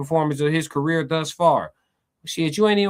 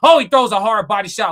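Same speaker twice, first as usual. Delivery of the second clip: excited; 7 dB louder than usual. Real, not acted. Big punch lands.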